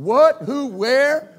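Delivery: high, loud startled yelps. Retold or imitated. Pastor startled by Alexa shutting down, yelping. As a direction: jump at the sudden voice.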